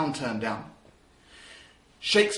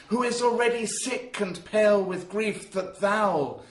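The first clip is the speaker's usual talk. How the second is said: excited Romeo. Acted. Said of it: "Romeo when he's at his most excited".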